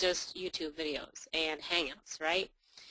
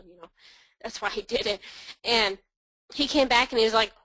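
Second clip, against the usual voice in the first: normal talking voice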